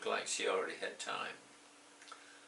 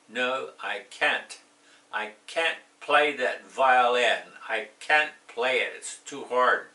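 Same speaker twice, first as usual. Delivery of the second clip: hammed-up complaining about the violin; mock frustrated; 3 semitones higher, 10 dB louder than usual. Teacher acts frustrated violin refusal.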